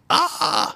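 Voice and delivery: high, breathy startled yelp; a husband's shocked gasp of cold; mock yelp. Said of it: "And he goes".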